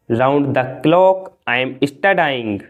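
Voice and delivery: slow, careful model sentence; slow and clear. Shown as a demonstration. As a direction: spell it out for learners. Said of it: "चौबीस घंटों से मैं पढ़ रहा हूँ।". (धीरे और साफ़)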